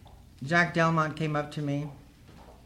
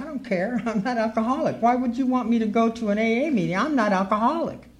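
higher-pitched, indignant protest; insistent refusal; 5 semitones higher than usual. Retold or imitated. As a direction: push back, insisting you're fine. Retold argument refusing AA meeting.

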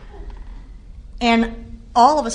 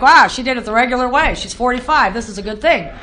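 mock excited doctor; 4 dB louder than usual. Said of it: "like, really excited".

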